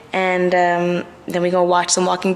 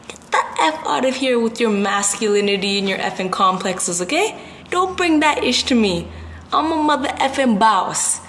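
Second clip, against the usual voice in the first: higher, defiant telling-off; sassy rant; 3 semitones higher than usual. Real, not acted. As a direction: put the haters in their place.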